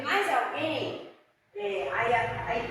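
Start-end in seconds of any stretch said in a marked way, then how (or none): 0.0-1.1 each word stretched out slowly, "Mais alguém?" dragged; slow, drawn-out ask. Retold or imitated. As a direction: drag out "Mais alguém?" hoping for another hand. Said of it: "Aí eu falei". ("Mais alguém?" arrastado e bem devagar)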